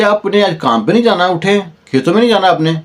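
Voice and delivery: wife rousing her husband for the fields, high and hurried; urging wife. Acted.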